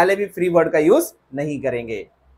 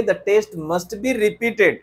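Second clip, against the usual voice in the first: slow model sentence; slow corrected example; much slower than usual. Shown as a demonstration. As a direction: model it slowly. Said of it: "नहीं sir, हम कहेंगे".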